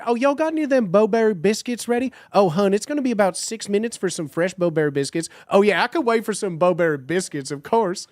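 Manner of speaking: a hint of a cheery Southern cashier; Southern drive-thru voice. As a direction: play both sides of the biscuit order, Southern and sweet. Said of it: "the Bojangles drive-thru voice".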